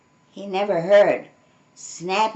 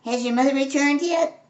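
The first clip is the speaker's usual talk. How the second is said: lightly raised friendly fox; young fox voice; 6 semitones higher, faster than usual. A narrator's reading. Fox friend asking the cub about his mother. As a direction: ask gently, a bit higher. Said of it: "Artie the fox".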